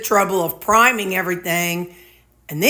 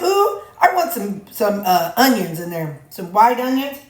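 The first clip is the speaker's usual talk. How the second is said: retold eager idea. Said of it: "I said".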